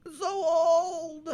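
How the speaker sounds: high, slow laugh through the words; real laughter breaking the words. Real, not acted. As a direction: chuckle it out, amused. Laughs at old clip.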